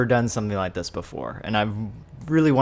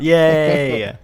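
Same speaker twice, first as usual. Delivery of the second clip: excited; 6 semitones higher, 10 dB louder than usual. Real, not acted. Greets guest joining stream.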